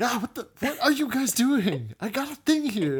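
high, loud exasperated outburst; loud, high-pitched comic protest; mock indignant yelling. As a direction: yell it like you're fed up with hecklers. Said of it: "when they start yelling, Shayna's like".

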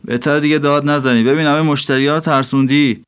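smirking. Acted. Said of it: "با پوزخند جوابم داد".

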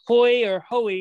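"Hoy" as one syllable, then "Hoey" as HOH-ee; alternative pronunciations. Shown as a demonstration. Host unsure of player's last name, "Hoy" then "Hoey" offered as alternatives. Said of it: "however you pronounce his last name".

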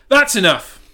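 the dog has had enough; crying out dog. Acted. Dog rallying the farm animals, loud outburst. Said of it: "the dog cried".

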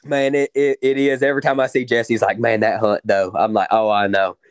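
loud, genuinely thrilled retelling; real excitement. Real, not acted. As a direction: gush about the best hunt ever. Excitedly recalling the great hunt.

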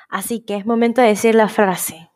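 whispered teasing build-up; whispering as she leads into her sign-off phrase. Real, not acted. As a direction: hush it like a secret before the catchphrase.

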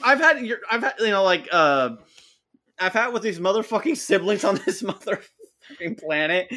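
fed-up rant that boils over; aggro rant. Retold or imitated. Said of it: "full on aggro".

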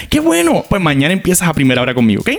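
sarcastic. Retold or imitated. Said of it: "Y ella así como que bien sarcástica".

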